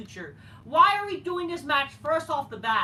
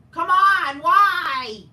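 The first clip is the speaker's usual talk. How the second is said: loud exasperated shout; frustrated yell; 12 dB louder, much slower than usual. Real, not acted. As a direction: let it burst out in real frustration. Ranting at booking.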